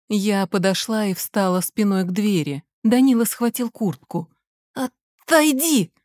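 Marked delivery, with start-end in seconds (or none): 4.7-5.9 высоко, медленно; рявкни сквозь зубы; злой приказ. Acted. Сын требует уйти. (сын злобно требует от матери, высоко)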